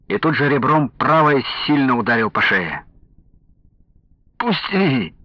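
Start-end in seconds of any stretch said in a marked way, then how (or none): 4.4-5.2 high, whiny plea to be let go; whimpering. A narrator's reading. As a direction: whimper like a beaten drunk. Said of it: "захныкал пьяный". (хныкать тонким голосом)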